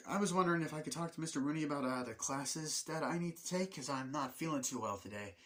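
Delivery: lightly voiced sick-day caller; put-on caller voice. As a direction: play a student politely phoning in sick. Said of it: "That was me doing the voice".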